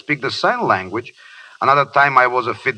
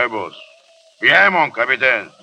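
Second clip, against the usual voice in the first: normal talking voice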